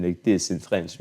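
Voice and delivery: mock French accent, like a dad. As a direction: imitate a French-accented father. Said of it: "I should speak like my dad".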